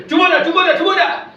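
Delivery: high, insistent imitated telling-off; mock scolding. Crowd silencing the blind beggar, mock scolding. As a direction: scold as an impatient crowd would. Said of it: "उसे डांट रहे हैं".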